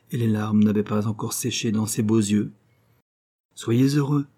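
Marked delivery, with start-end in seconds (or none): 3.6-4.3 calling out. Acted. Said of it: "lui cria le rossignol".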